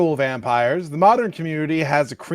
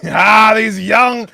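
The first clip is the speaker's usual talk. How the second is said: put-on loud cranky old-timer; grumpy old man; 7 semitones higher, 6 dB louder than usual. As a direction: yell like a grumpy elder vampire. Old vampire grumbling.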